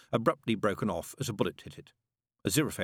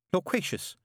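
hollow voice; 11 semitones higher than usual. Acted. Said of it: "said Mary in a hollow voice".

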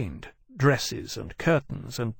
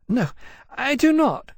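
put-on high fussy young dragon; high-pitched dragon voice; 13 semitones higher, 3 dB louder than usual. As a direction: lift it high, quick and fretful. Persitia's dragon voice.

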